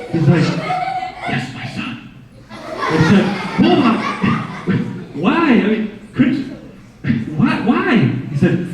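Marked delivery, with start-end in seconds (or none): 0.4-2.1 soft, whispery raspy cat. Acted. The cat Bulldog confesses to Kevin, in a soft raspy whisper. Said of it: "raspy voice". 3.6-8.0 pleading. Retold or imitated. Pleading with talking cat.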